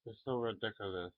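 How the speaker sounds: quick, light it's so ridiculous; quick take. Shown as a demonstration. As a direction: rattle it off fast. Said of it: "Does that sound more like".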